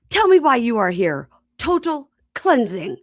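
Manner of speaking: theatrical, commanding mock-priest voice; imitated priest's demand. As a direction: declaim it as a ritual priest. Voices the priest interrogating them.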